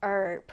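"herb" said as "erb", no H; "herb" starting straight on the vowel; silent-H herb. Shown as a demonstration. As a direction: drop the H in "herb", American style. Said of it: "H 발음이 없어요".

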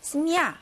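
스미야 ending on a stressed, full "ya". Shown as a demonstration. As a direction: put the stress on the final 야 of 스미야. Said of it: "강세 있으니까 당연히 자기 소리 나겠죠".

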